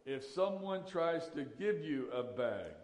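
lightly imitated airport announcer, slowed down; slow, measured mock public-address reading; a hint of the terminal announcer, spelling out the warning; airport announcement voice. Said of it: "hear that little magic voice come on".

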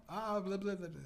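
high-pitched mocking babble; mock rival podcaster. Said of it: "here's my impression of".

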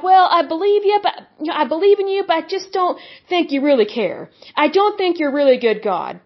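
half-hearted believer's whine; whiny doubting prayer. Retold or imitated. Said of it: "wimpy, whiny prayers".

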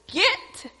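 two words split by a heavy pause; retold furious order. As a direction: imitate a mother ordering her son out. Enraged mother throws son out.

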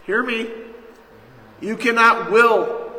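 forceful insistence. Real, not acted. Preacher to congregation, refusing self-will: loud, slow. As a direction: pound each word.

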